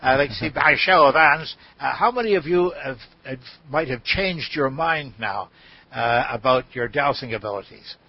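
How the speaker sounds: a hint of an Australian accent, mostly his own voice; light Australian accent. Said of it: "I'm trying to do my Australian accent here".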